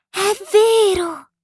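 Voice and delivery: put-on high, slow, delighted child voice; laughing murmur. A narrator's reading. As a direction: breathe it out slowly through a giggle. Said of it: "mormorò ridendo". (mormorio ridente con vocina acuta)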